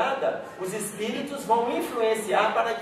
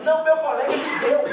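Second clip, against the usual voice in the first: mimicking a boy's lie; 6 semitones higher, 4 dB louder than usual. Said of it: "Ele fala assim".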